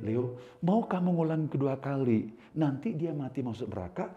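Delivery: low, soft voice of God retold; God's quiet rebuke. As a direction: quote a solemn question, low and quiet. Retells God speaking to him.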